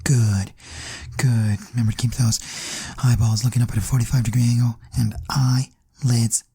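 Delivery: low, measured meditation guide; guided meditation. Acted. Meditation leader keeping listeners' eyelids closed, guided meditation voice.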